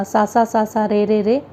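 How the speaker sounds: each note said three times, slowly; tripled notes demo. Shown as a demonstration. Teacher showing students tripucham, each note slow. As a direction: spell out sa sa sa, re re re at a steady, slow pace. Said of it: "एक एक स्वर को तीन तीन बार बोलना".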